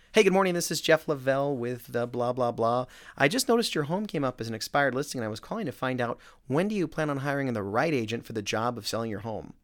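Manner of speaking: a cheery telemarketer rattling off a script; eager agent opening a cold call, loud and peppy; upbeat sales cold call. Retold or imitated. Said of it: "it went something like this".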